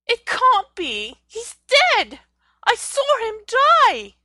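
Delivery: anguished shout, pitch soaring; loud shocked disbelief, voice rising high; crying out. A narrator's reading. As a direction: cry out in disbelief at seeing him. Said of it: "Hermione cried out".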